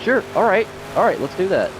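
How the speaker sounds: jumping at the deal; eager agreement. Retold or imitated.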